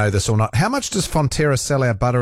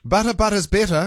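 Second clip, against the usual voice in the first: mock ad jingle; 8 semitones higher than usual. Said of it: "That was a great ad".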